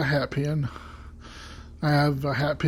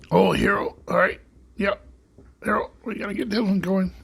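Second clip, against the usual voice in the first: a hint of a folksy Canadian handyman; lightly voiced Red Green talking to Harold; Red Green impression; 5 semitones higher than usual. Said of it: "I can do a Red Green voice".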